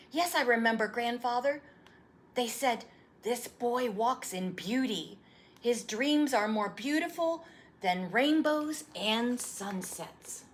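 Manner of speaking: put-on an eager young boy begging for the story; boy's voice. Boy recites.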